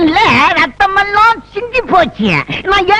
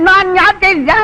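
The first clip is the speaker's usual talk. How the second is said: ordinary talk, nothing marked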